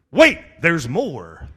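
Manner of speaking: slow, drawn-out infomercial pitch with a laugh; TV commercial pitchman. Retold or imitated. Preacher mimicking a TV commercial, mock pitchman voice. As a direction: sell it like a late-night ad. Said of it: "great, uh, commercial guy, you know, on T V".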